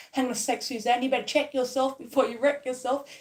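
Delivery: a light stern talking-to in the mirror; mock self-scolding. Woman telling herself off in the mirror, mock stern. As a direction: scold yourself lightly, half joking. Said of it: "look myself in the mirror".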